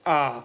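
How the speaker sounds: आ drawn out long and low; long vowel demo. Shown as a demonstration. Teacher demonstrating a long vowel to students, drawn out. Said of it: "आ में ज्यादा समय लग रहा है".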